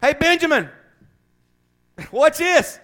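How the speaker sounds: high, loud whining mockery; mocking a soldier too scared to fight, whining high. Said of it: "Yeah, whining".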